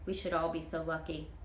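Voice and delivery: easygoing Southern auntie dreaming aloud; a hint of a chatty older woman; Toot, folksy older woman. Toot's voice in read story.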